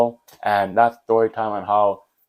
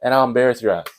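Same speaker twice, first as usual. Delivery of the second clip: retold threat; 3 semitones higher than usual. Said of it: "I didn't say that".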